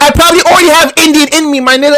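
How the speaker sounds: rushed and exasperated; quick exasperated pushback at friends; fast heated protest. Real, not acted. Heated denial.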